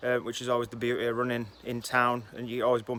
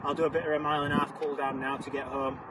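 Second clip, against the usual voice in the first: talking mid-run, short of breath; while running; 3 dB quieter than usual. Real, not acted. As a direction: speak while jogging along. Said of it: "Currently on about mile five".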